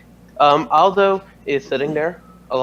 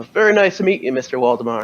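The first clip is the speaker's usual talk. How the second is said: a hint of a soft Irish accent; gently Irish, barely there; faster than usual. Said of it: "in a soft Irish accent".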